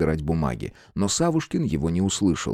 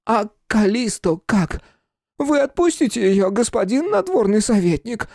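высокий медленный озабоченный вопрос; спроси с тревогой, тонко; озабоченно; 4 dB louder than usual. Acted. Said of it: "озабоченно спросил он". (озабоченный фамильяр, высоким голосом)

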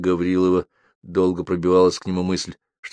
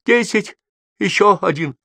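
put-on much higher, timid boy's squeak; 5 dB louder than usual. A narrator's reading. Frightened boy answering the convict, squeaking. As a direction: squeak it out like a scared child. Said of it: "пискнул мальчик".

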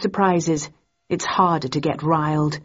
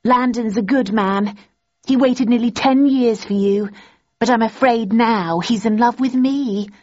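gloating; 5 semitones higher than usual. A narrator's reading. Daisy gloating to Thursday about Landon, higher. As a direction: rub it in sweetly.

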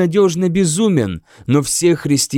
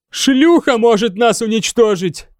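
declaring; 7 semitones higher than usual. A narrator's reading. Bishop declaring danger to the king. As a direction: proclaim it to the hall. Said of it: "заявил епископ Ассер".

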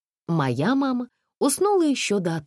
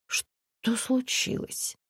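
whisper; 10 semitones higher, 5 dB quieter, much slower than usual. A narrator's reading. Narrator's mother asks driver.

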